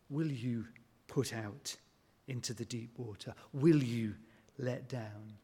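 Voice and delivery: soft, fading, inviting question; gentle invitation. Retold or imitated. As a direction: invite him gently to trust. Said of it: "words of invitation".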